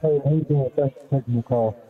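muffled behind a hand; hand over mouth. Real, not acted. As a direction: talk through a cupped hand over mouth. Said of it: "you're talking with your hand over your mouth like this".

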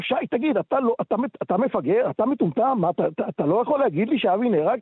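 a hint of the fury he felt; retold anger. Shouting at his friend in the square, mild retold anger.

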